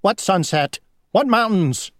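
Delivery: high, dismissive bug; squeaky mocking questions; scoffing dragonfly voice.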